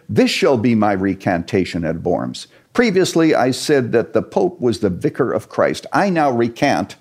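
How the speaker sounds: lightly voiced defiant reformer with a sarcastic, mocking edge; defiant Luther. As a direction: announce the mock recantation with a scornful flourish. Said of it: "He said".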